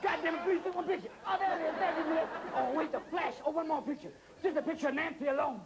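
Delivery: fast, pleading paparazzo patter; pushy photographer. Acted. Photographer begging Liz for one picture, pleading.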